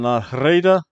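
La Reina with a strongly rolled Spanish R. Shown as a demonstration. Vlogger showing off rolling R's in La Reina. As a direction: trill the R in Reina. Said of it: "I can roll my R's better".

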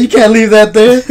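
high, loud mock scolding; retold scolding. Coworkers telling him off for blocking the line, loud mock scold. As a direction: bark the complaint like an irritated coworker.

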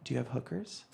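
low, hushed phone question; sheepish and subdued; timid request. Retold or imitated. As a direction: ask it softly, as if embarrassed. Timid teens asking on phone.

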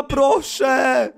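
shouted desperate please; pleading shout. Real, not acted. Begging doll to shoot. (błagalny okrzyk)

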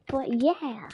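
whispered under the breath. Real, not acted. To himself, mid-match, a quick whispered aside. Quiet aside during game.

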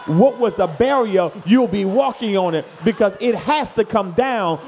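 loud, driving preaching; preaching climax. Real, not acted. Preacher rallying congregation against the enemy, loud. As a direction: build the fire, loud.

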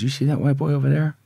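lightly voiced inmate talking to his buddy; retold inmate's aside. Retold predator's remark to a pal.

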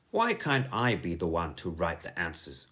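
low, sulky complaint; grumbling. Acted.

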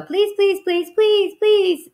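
high, squeaky little gosling pleading; high gosling voice begging to go. Acted. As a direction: beg like a tiny gosling. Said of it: "all seven began teasing".

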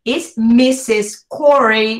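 slow, R-heavy "Corey"; exaggerated English. Shown as a demonstration. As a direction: stretch it out, American style.

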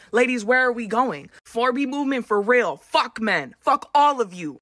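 angry rant. Real, not acted. Woman ranting at men to camera after the election. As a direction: fire it at the men.

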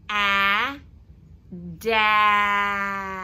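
each sound "n", "a" said separately, then blended into "nut". Shown as a demonstration. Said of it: "Let's read it".

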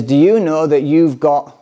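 slow, earnest preacher's question; mock-earnest preacher delivery; acting the apostle. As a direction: ask it like a pulpit apostle. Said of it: "this is me acting him now".

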